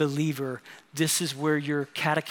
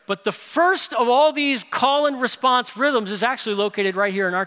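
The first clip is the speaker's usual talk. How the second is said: raised, energetic sermon voice; emphatic preaching; 5 semitones higher, 6 dB louder than usual. Real, not acted. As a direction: punch out the points to a congregation.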